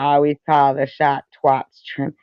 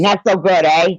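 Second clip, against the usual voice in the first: mock Roman accent; 3 semitones higher than usual. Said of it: "Roman accent".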